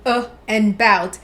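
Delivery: "uh" and "bout" said slowly as two separate syllables; split into syllables. Shown as a demonstration. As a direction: break "about" into "uh" and "bout", slowly. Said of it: "the word about has two syllables".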